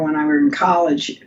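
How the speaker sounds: "when I were in college" said as a quick grammar slip. Real, not acted. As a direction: trip over "were" in passing. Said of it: "when I was in college".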